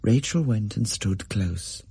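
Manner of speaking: ordinary delivery, nothing marked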